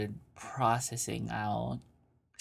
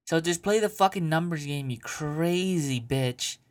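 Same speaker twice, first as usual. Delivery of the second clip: mock scolding; 5 semitones higher than usual. Real, not acted. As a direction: tell her off with a grin. Scolding the letter writer.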